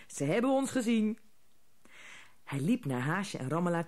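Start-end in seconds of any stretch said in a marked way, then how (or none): 0.1-1.2 calling out. A narrator's reading. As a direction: tell the others they've been spotted. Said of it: "riep hij".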